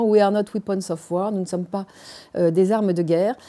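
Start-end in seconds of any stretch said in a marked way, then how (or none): 0.0-1.3 English title in a French accent. Real, not acted. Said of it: "alors avec mon accent".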